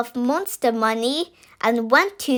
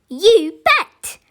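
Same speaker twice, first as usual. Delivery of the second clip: put-on high, bright yes from a child; keen little girl's "You bet"; eager; 7 semitones higher, 5 dB louder than usual. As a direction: jump at the offer. Natalie eagerly accepts the offer.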